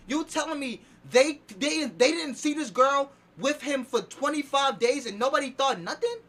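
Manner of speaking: strained, fading voice; losing voice. Real, not acted. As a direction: push through a voice that's giving out. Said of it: "Yo, I'm losing my voice".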